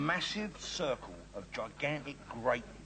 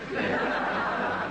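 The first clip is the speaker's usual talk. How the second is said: laughing; 6 dB louder than usual. Real, not acted. Laughs at phone joke.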